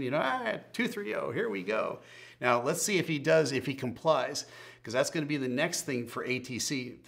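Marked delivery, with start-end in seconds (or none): 0.2-2.0 high, giddy slurred imitation; town drunk. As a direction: play the happy, woozy pilot. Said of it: "the kind of happy mood he's in".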